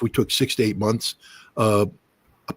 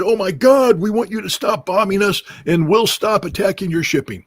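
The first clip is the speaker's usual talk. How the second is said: lightly voiced panicked Houthi caller, higher; a hint of mock panic, pitched up; 10 semitones higher, 3 dB louder than usual. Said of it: "panicked and said".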